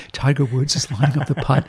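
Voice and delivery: mock golf announcer, lightly hushed; a hint of sotto voce sportscasting. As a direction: commentate like a discreet golf announcer. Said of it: "announcers do the Sado Sado voice".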